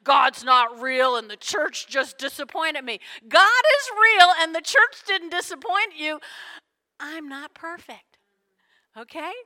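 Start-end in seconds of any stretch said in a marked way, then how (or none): 0.0-3.0 mock complaint. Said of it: "please don't say". 7.0-9.3 quiet admission. Real, not acted. Quiet confession after shouting.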